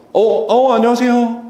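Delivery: high, cheerful greeting; upbeat welcoming hello; bright voice tone. Shown as a demonstration. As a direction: greet with a lifted, happy tone. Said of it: "다르잖아요".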